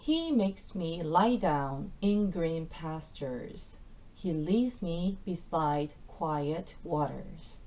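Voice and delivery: reading the verse slowly and clearly. Shown as a demonstration. Teacher reading the next verse slowly to the class. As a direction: lay out each word slowly for learners. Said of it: "이 절 말씀으로 넘어가 보겠습니다".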